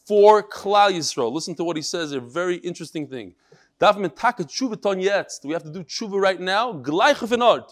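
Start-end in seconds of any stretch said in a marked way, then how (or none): 3.8-5.4 Litvish Yiddish. Retold or imitated. Rabbi reads a martyr's last words to his class, Litvish Yiddish. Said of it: "in the Litvish Yiddish". 6.7-7.7 Litvish Yiddish. Retold or imitated. Rabbi reads a martyr's last words to his class, Litvish Yiddish. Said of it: "in the Litvish Yiddish".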